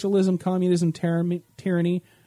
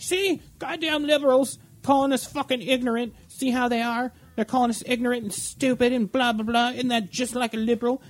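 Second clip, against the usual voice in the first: higher, mock-indignant radio host rant; mock her outrage, pitched up; higher mocking talk-radio huff; imitating a pissed-off radio host; 5 semitones higher than usual. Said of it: "all pissed off".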